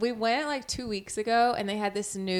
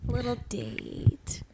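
whispered; 3 semitones higher, much slower than usual. Shown as a demonstration. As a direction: breathe it out slowly. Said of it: "Why was that whispered?".

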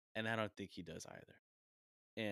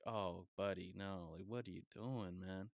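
pitying dismay; 5 dB quieter, slower than usual. Retold or imitated. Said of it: "And I'm like".

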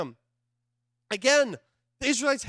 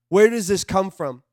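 louder, pressing where; louder urgent second ask; emphatic repeat; 5 dB louder than usual. Real, not acted. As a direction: push the question harder.

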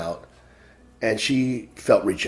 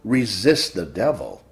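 rising and falling sermon cadence, punching key words; preaching; 2 semitones higher than usual. Acted. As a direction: exhort the flock to fear the Lord. Preaches to congregation.

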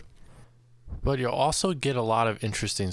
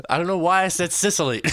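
words pushed out through real laughter, higher; high, louder laughing confession; laughing while talking; 8 semitones higher, 5 dB louder than usual. Real, not acted. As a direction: giggle through the whole line. Laughing at own story.

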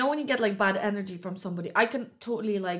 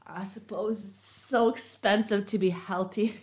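slow, mocking repeat of her words; mocking imitation; slower than usual. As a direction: parrot her back, drawn out. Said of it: "Look at you with your".

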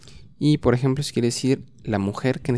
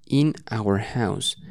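slow model phrase; slower than usual. Shown as a demonstration. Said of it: "Very good".

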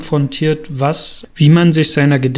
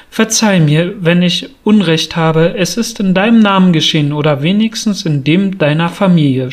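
reading aloud; 3 semitones higher than usual. Shown as a demonstration. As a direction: read the passage out to the class with expression. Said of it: "möchte ich das Ganze noch mal ein bisschen vorlesen". (lebhaft vorgelesen, höher und etwas lauter)

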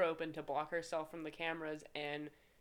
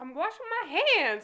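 high, loud exasperated retort; retold yell back; 13 semitones higher, 11 dB louder than usual. Worker answering screaming boss, loud indignant yell. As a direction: mimic shouting back in protest.

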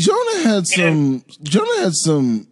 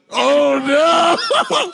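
mock shock; 9 semitones higher than usual.

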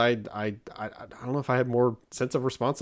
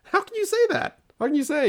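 high, disbelieving retort; exaggerated exasperated disbelief; mock incredulous. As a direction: question the kid in high-pitched disbelief. Retold incredulous reply to daughter.

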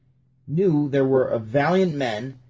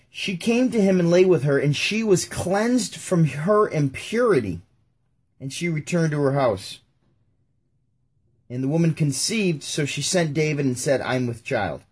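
raised, deliberate Bible reading; scripture reading; 3 semitones higher than usual. Acted. Rereading the verse to compare Bibles, deliberate. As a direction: read the verse clearly and carefully.

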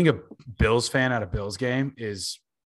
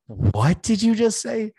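much higher, slow, disbelieving; indignant challenge; 11 semitones higher, 4 dB louder, slower than usual. Retold or imitated. Sean challenging the heckler, higher slow indignant question. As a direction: draw it out as a challenge.

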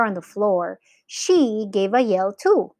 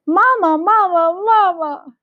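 put-on high, loud little-boy calls; excited chirrup; 9 semitones higher, 6 dB louder than usual. A narrator's reading. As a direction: chirp it like a small child calling for mother. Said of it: "chirruped Philip".

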